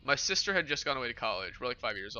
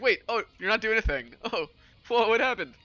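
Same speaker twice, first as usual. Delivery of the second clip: imitating the sister's startled reaction, higher and a bit louder; sister surprised; 8 semitones higher, 4 dB louder than usual. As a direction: sister shocked by his new voice on the phone, voiced higher. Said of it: "She's like".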